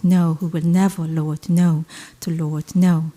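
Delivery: rhythmic litany, each "no" punched; steady, insistent poem chant; incantatory recitation. Acted. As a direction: chant the refrain like a prayer turned inside out. Repetitive litany poem reading.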